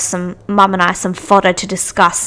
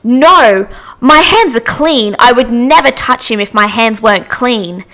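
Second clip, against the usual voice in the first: offended lady. Retold or imitated. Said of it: "She goes".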